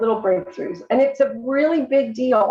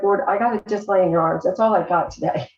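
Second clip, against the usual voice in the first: tired prayer; 3 semitones lower than usual. Retold or imitated. Praying to the Lord in the morning, gently weary. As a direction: sink into rest and let it go. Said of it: "I'll be like".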